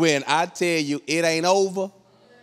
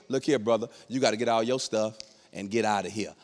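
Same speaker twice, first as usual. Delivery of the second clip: low, softer imitation of an officer; stern officer; 6 semitones lower, 5 dB quieter than usual. Police officer ordering husband out, low and stern. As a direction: lay it down low and firm.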